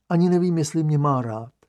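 usual speaking voice

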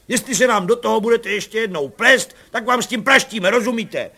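hlasité rozzlobené hřmění; hřmít na ni výš a hlasitěji; hromování. A narrator's reading. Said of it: "začal hromovat pan Bartošek". (komisař hromuje na matku, hlasitě)

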